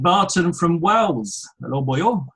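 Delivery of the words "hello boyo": playful Welsh greeting; jokey stock Welshman accent. Acted. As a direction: put on a light Welsh lilt. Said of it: "I'm not gonna do accents".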